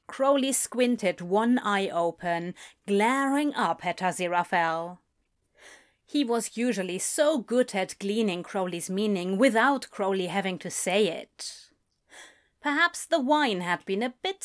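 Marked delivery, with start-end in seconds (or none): none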